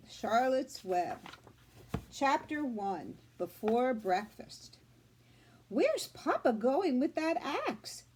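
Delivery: put-on reading aloud to children; teacher reading a chapter book to her class; story reading. A narrator's reading. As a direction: tell the story to the class, clear and gentle.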